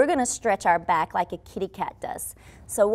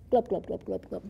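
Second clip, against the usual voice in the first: fish sound; 2 semitones lower, 5 dB quieter than usual. Shown as a demonstration. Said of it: "That's my fish sound".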